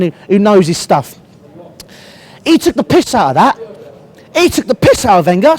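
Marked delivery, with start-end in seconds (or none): 4.4-5.6 voice crack. Real, not acted. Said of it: "Sorry, voice crack there".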